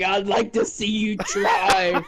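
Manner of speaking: slow, smug dare with a laugh; laughing taunt. Retold or imitated. Cole taunting the players ganging up on him, laughing smug dare. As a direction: challenge them while cracking up.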